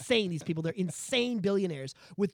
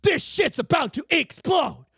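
retold alarm; 7 semitones higher, 5 dB louder than usual. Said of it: "He's like".

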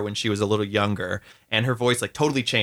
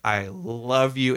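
slow, tender I love you; much slower than usual. Retold or imitated. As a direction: say it slowly, from the heart. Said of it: "look someone in the eyes and be like".

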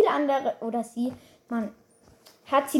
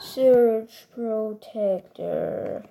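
slow, drawn-out, lowered character line; robotic catchphrase imitation; 4 semitones lower, 3 dB quieter, much slower than usual. Player echoing a brawler's line, low slow imitation. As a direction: lightly imitate a game hero's slow announcement.

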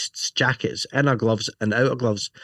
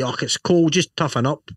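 mock tough guy; 4 semitones higher than usual. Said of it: "a lot of people just say".

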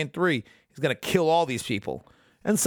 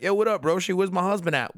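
higher, hammed-up wife voice; lightly voiced pushy wife; mock casual greeting; 6 semitones higher than usual. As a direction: breeze in demanding answers, jokey. Voicing wife showing up casually.

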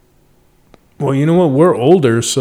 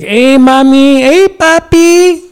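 high, slow, sweet-talking flirt; flirty pickup line; 10 semitones higher, 3 dB louder, slower than usual. Retold or imitated. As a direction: sweet-talk her in a high voice.

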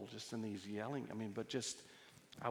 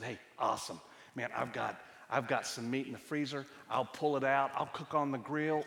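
keen offer, building in pitch and volume; retold eagerness; 4 dB louder than usual. Husband offering to grill for family, growing eagerness. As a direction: build enthusiasm with each step of the plan.

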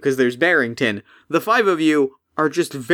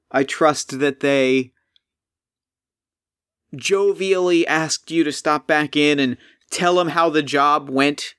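weary golem. Acted. Golem voice held.

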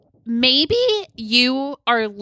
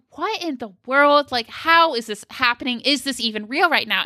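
mild retold disbelief; 3 semitones higher than usual. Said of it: "I'm beginning to panic".

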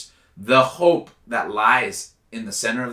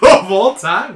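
incredulous; 7 semitones higher, 11 dB louder, slower than usual. Real, not acted. Surprised at a top five pick.

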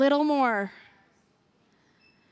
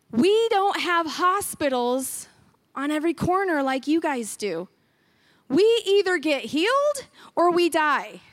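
African pastor quote. Retold or imitated. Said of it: "I almost want to do the accent".

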